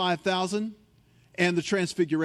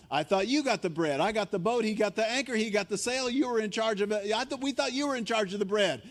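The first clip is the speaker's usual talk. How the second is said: higher, flustered babble of excuses; lightly voiced panicking disciples; panicky disciples; 5 semitones higher than usual. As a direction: blame each other in a fluster. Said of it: "The disciples are in the boat going".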